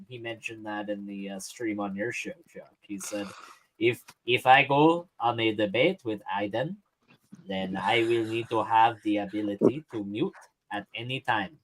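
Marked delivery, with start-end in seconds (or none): 3.8-11.6 put-on a mild take on Father Charles's accent; quoting in a light Father Charles's accent; a lightly borrowed Father Charles's accent. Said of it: "You are stealing my accent".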